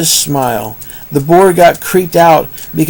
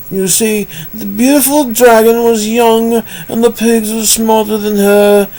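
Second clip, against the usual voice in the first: lightly raised new storyteller voice; a touch higher narrator voice; different voice; 3 semitones higher than usual. Shown as a demonstration. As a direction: keep the higher narrating voice going. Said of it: "How about a different voice?".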